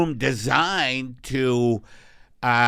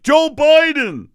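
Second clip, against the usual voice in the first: alien voice; 12 semitones higher, 9 dB louder than usual. Pretend. Alien voice continues.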